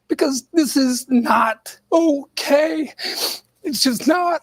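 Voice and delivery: tearful catch in the voice; fighting back tears; crying. Real, not acted. Emotional clip, crying.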